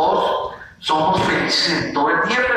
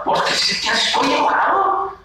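high, stubborn mock huff; acted anger; 5 semitones higher than usual. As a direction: play a cranky child digging in. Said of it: "pero ¿por qué estás enojado?".

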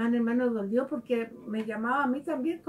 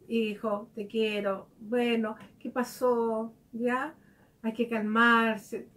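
gentle loving mother; slower than usual. Retold or imitated. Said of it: "de otra forma".

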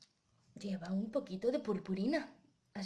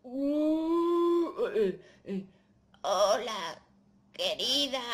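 wolf faking grandma; 3 semitones higher, 4 dB louder, much slower than usual. Pretend. Wolf in bed greeting Caperucita, clumsily disguised. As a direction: greet like a wolf badly playing granny.

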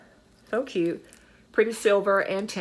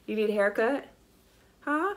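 pet voice; 4 semitones higher than usual. Real, not acted. Talking to the dog Jersey.

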